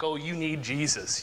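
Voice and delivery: lightly imitated scoffer; mocking. Fools making a mock of faith, lightly jeering. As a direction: toss it off as a mild taunt. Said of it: "they make a mock".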